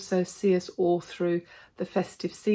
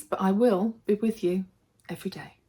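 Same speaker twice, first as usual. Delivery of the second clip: hoarse whisper. Real, not acted. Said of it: "losing my voice".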